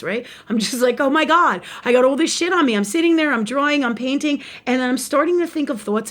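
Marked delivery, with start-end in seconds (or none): 1.0-2.7 higher-pitched worked-up complaint; retold alarm. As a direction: re-enact your own dismay, pitched up. Retells own alarm at bad thoughts.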